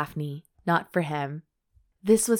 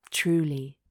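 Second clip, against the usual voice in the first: gruff; 2 semitones lower than usual. A narrator's reading. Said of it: "how gruff his voice sounded".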